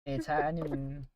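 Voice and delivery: Southern Ganondorf. Pretend. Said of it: "Southern Ganondorf".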